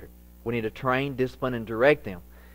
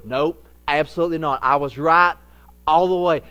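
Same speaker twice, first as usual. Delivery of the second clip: stubborn insistence; 3 semitones higher, 8 dB louder than usual. Retold or imitated. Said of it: "times to go".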